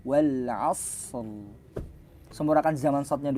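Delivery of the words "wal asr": Wal asr dengan ra sukun jelas; tajwid demo. Shown as a demonstration. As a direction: ucapkan "Wal asr" tanpa vokal setelah ra. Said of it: "tapi cuma suara". (contoh bacaan "Wal asr")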